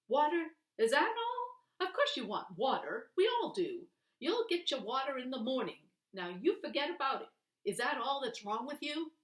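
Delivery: loud, high exasperated scolding; gruff scolding. A narrator's reading. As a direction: dress the boy down hard. Perd scolding the sick boy.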